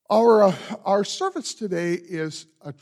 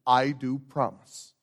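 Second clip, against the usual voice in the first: slow, lower model response for the congregation; modelled response; 3 semitones lower, slower than usual. Shown as a demonstration. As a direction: show them the words to answer. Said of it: "then declare so by saying".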